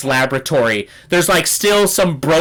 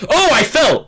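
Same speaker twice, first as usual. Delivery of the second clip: high, startled yelp of words; voiced jolt of alarm; startled exclamation; 9 semitones higher than usual. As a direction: act out the shock of a fall. Acts out shock of falling.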